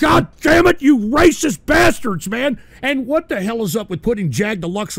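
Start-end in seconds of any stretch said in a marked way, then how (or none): 0.0-2.3 angry shout. Real, not acted. Trolls interrupt his show.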